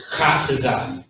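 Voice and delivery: "Kataza" opened with a strong airy kh; emphatic first sound. Shown as a demonstration. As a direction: lean hard on the breathy start of "Kataza". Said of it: "You, you hear me?".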